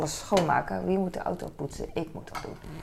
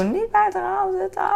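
much higher, louder imitated yell at her son; mock yell; 5 dB louder than usual. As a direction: shriek the warning like an exasperated mom. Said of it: "Dus ik gil nog af en toe".

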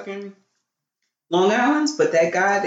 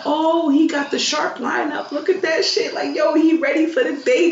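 lightly voiced tipsy praise, pitched up; a hint of a drunk hyping someone; drunk man; 8 semitones higher than usual. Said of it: "He was blasted".

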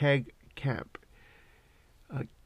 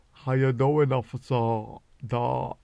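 louder, put-on innocent greeting to the officer; mock sweet greeting; 7 dB louder, slower than usual. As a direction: greet the cop too sweetly. Greeting fishing game officer.

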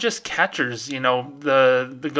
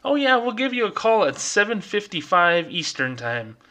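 mock customer service; 6 semitones higher than usual. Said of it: "at B of A Help or at Ask Wells Fargo say".

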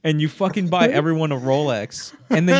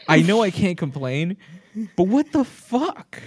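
exasperated; 3 semitones higher, slower than usual. Pretend. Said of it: "Wouldn't you be like".

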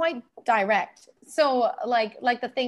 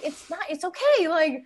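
laughing reassurance; 4 semitones higher, 4 dB louder than usual. Retold or imitated. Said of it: "and I was like".

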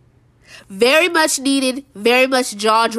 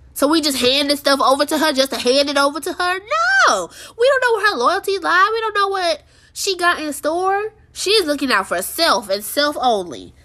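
exasperated rant; 5 semitones higher than usual. Real, not acted. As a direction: push back hard against the writers. Ranting at the show's choices.

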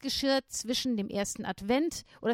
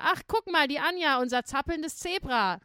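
mocking teacher; 4 semitones higher, 3 dB louder than usual. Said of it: "Und dann meinte mein Lehrer".

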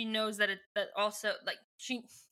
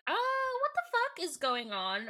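mock panic; 9 semitones higher than usual. Aldrea finding herself in a strange body, mock panic. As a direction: exclaim in hammed-up panic.

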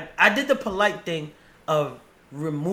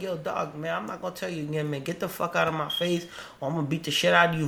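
very calmly; faster than usual. Retold or imitated. To a cop on the street, calmly cussing. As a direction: threaten someone as if it's nothing. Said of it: "very calmly".

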